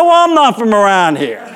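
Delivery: high, defiant comeback; mock yelling. Pitcher talks back to the umpire, mock-angry defiance. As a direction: shoot back a cheeky retort. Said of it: "we're yelling".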